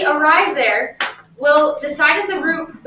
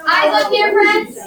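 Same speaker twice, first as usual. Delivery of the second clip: calling out; 7 semitones higher, 5 dB louder, slower than usual. Real, not acted. Teacher calling class to attention.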